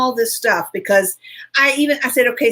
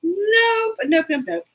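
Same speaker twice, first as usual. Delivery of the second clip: firm refusal; 6 semitones higher, slower than usual. Retold or imitated. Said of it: "And I'm like".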